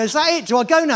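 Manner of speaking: baffled and jittery; nervous disbelief. Retold or imitated. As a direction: rider asking the starter, anxious and surprised. Nervous rider asking starter.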